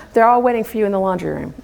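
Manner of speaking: laughing punchline. Real, not acted. Laughing while telling punchline.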